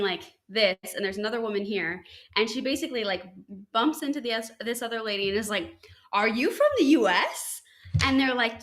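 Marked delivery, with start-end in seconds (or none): 6.1-7.6 excited tourist. Retold or imitated. Tourist excitedly greets another American.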